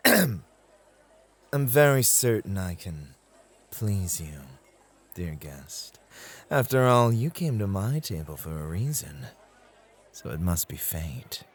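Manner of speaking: woo the guest like a charming club host; smooth host charm. Shown as a demonstration. Host showing a new recruit how to charm a guest, suave. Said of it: "let me tag in and show you how we handle such asks".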